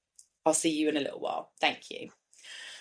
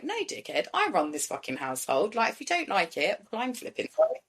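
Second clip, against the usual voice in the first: firm parent; 2 semitones higher than usual. Retold or imitated. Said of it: "like, firm".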